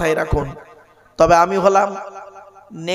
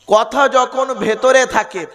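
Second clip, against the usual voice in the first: slow deliberate maxim; slow, weighty delivery; 2 semitones higher, slower than usual. Shown as a demonstration. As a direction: say it slowly, stressing ভেতরে. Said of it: "আবার বলছি".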